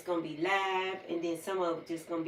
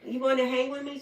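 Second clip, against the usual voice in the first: put-on girl's voice; 6 semitones higher, 4 dB louder than usual. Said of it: "She said".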